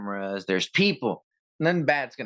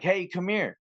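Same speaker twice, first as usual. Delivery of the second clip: cop calling out; 6 semitones higher than usual. Retold or imitated. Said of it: "And he's like".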